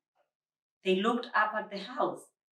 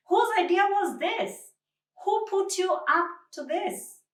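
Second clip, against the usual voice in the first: higher, louder stern questioning; stern demand; 12 semitones higher, 4 dB louder than usual. A narrator's reading. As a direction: demand an answer from the culprits. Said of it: "the stern voice of Josephine".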